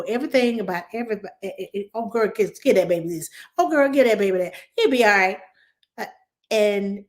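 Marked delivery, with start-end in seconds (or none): 1.9-5.4 mock bench doctor. Mocking a know-it-all bench doctor.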